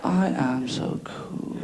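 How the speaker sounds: deep, slow, self-satisfied; slow low smug drawl. Retold or imitated. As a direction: savour every word, so pleased. Cat voiced as smug.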